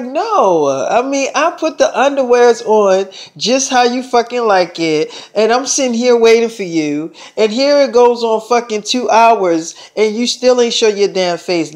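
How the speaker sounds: lightly imitated girlfriend complaint; a mild mock scolding from a fed-up girlfriend; upset girlfriend. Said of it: "I'm really upset at you".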